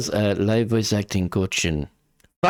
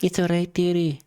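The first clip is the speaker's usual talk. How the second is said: put-on old lady voice; 6 semitones higher than usual.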